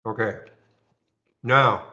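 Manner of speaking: talking while chewing ice; chewing ice between words; mouth full. Real, not acted. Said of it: "I'm chewing on some ice".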